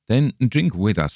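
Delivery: good-humoured. A narrator's reading. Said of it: "said my companion good-humouredly".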